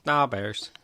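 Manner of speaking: put-on Chicago accent. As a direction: try out a Chicago fan's accent, understated. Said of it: "That was a terrible Chicago accent".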